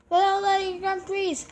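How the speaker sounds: slurred speech through a frozen mouth; numb mouth. Real, not acted. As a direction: talk around ice with a numb tongue. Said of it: "It's kinda hard to talk".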